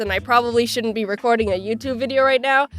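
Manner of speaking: stuffy nose voice; blocked-nose cold voice; nasal sick voice. Real, not acted. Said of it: "my disgusting, nasally voice".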